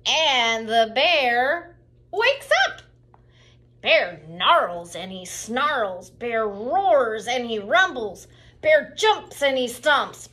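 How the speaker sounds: booming, growling storytelling; loud dramatic reading. A narrator's reading. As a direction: build the bear's rage loudly. Bear wakes angry.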